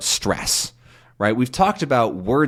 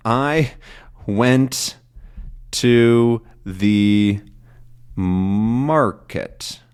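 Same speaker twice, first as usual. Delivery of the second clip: slow demo; much slower than usual. Shown as a demonstration. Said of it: "Let's do that".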